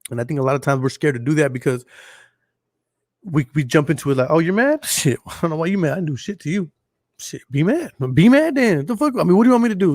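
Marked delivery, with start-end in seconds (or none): 4.3-9.9 mock-defensive, building to a higher exclamation; defensive mock quarrel. Arguing back at a partner who is mad, mock-defensive.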